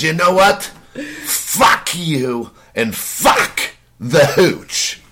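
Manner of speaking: mock-furious retort, broken up word by word; snapped retort. Pushed victim curses the prank caller, snapping. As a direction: imitate a fed-up man, spacing out each curse. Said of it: "he finally snaps".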